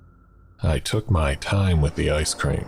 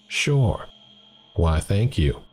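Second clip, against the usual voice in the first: higher, chatty diner waitress voice; friendly waitress; 4 semitones higher, slower than usual. Acted. Diner waitress to shaken customer, higher and chatty. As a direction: play the waitress offering free refills.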